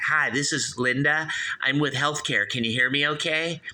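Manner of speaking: hint of a chirpy automated phone agent; robot caller. Spam robot introduces itself on a call, lightly imitated robot. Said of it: "it's like a robot".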